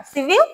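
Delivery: "সিভিল" with a faint, softened l; barely touch the l at the end of "সিভিল"; light final l. Shown as a demonstration. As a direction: model "সিভিল" rising, l almost swallowed. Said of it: "এখানে এলটা একটু হালকা উচ্চারণ হয়".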